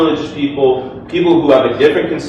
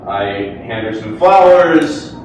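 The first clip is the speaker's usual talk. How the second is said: ordinary delivery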